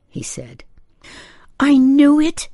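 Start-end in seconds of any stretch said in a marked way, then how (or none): 1.6-2.5 high, loud, wavering wail; upset mother, pitched way up and wavering. A narrator's reading. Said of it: "in a wavering voice".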